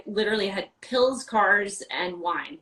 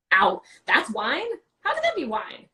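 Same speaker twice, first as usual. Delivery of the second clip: amazed disbelief; 3 semitones higher, 3 dB louder than usual. Retold or imitated. Tasting Trembach Riesling in class, retelling her astonished reaction. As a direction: relive the shock of a wine that wows you. Retold first taste of Riesling.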